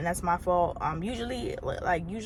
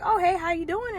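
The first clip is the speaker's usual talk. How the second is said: fake-friendly greeting; 10 semitones higher than usual. Her fake-friendly greeting to the desk-sitter.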